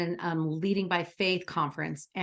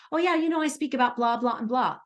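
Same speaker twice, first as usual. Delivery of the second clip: bright, bold casual pitch of her topics; confident; 3 semitones higher than usual. Shown as a demonstration. Coach shows clients how to mention their topics, confident and bold. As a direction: say it like you own it, lightly higher. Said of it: "It's really being a confident, bold self".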